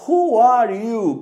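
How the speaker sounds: teacher reading the example slowly and firmly; slow, loud model question. Shown as a demonstration. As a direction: stretch each word for the students. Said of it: "Não confunde ele com who".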